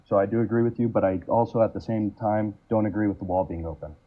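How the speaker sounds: muffled, hand over mouth. Real, not acted. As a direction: speak through a covered mouth. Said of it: "your mic is a little bit muffled".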